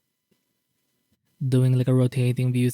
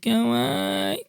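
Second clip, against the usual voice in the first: excited anime fan; 9 semitones higher than usual. Real, not acted. Gushing over cute art.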